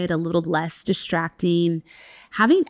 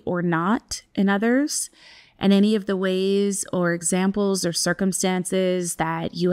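guided meditation. Acted. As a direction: ease listeners into stillness. Leads a breathwork practice.

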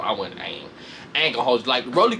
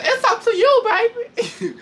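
high, louder taunt breaking into a laugh; imitating Jayla; 4 dB louder, slower than usual. Retelling Jayla's fight dare louder, laughing through it. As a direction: coo the dare and crack up. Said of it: "She said".

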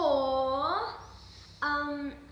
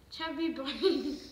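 cheeks stuffed full. Real, not acted. Marshmallows in mouth, challenge.

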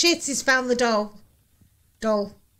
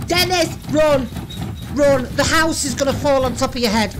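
urgent urging. Real, not acted. Urging investigator to escape.

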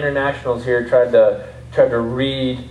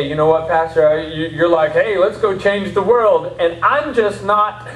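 higher-pitched protest to the pastor; doubting congregant; 6 semitones higher than usual. Acted. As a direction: plead inadequacy in a rising voice. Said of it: "You say".

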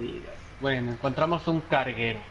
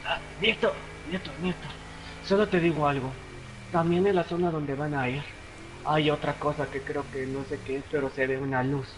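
put-on very old man. Grandpa calls on camera.

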